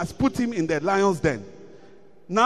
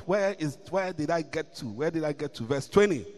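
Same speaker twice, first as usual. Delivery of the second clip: much softer aside to himself; muttered aside; 7 semitones lower, 9 dB quieter than usual. Real, not acted. Preacher muttering while searching for his verse. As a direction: quietly lose the place. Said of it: "aside looking for place".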